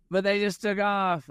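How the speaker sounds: high, alarmed protest; imitating shocked dismay; panicked disbelief. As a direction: sound stunned that the clients just left. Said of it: "And like".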